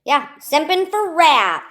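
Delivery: ordinary talk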